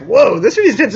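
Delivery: light mock amazement; awed. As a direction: retell being gripped by the film. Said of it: "I was like".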